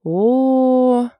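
high, loud drawn "oh!"; eye-rolling group groan; loud exasperated "oh!"; exasperated exclamation. A narrator's reading. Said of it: "воскликнули все девчонки".

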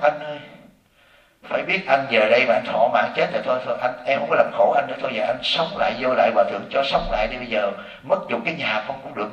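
soft, pleading wife's lament; mock crying wife. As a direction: beg him quietly to come back, half-mocking. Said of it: "con vợ khóc". (giọng vợ khóc lóc van xin, nhỏ nhẹ)

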